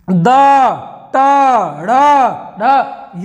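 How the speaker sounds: slow isolated द, ट, ड़, ढ with long pauses; sounding out letters. Shown as a demonstration. Teacher sounding out letters for the class. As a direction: spell out each letter one by one. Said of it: "देखिए".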